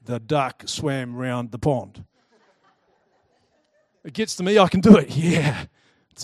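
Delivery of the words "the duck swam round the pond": slow, careful word-by-word reading with a laugh; rehearsing a line. Retold or imitated. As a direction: read it out slowly like a child practicing. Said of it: "I'm practicing hardcore my line".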